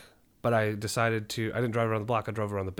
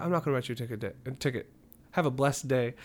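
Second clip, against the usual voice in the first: polite brush-off. Retold or imitated. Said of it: "in the most polite way possible".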